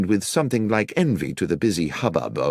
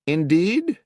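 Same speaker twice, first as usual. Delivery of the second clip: calling through a door; 10 semitones higher than usual. A narrator's reading. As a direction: call out over the barrier. Watson calls through door.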